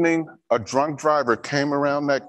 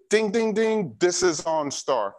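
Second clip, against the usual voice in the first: OnStar operator. Retold or imitated. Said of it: "And then I hear".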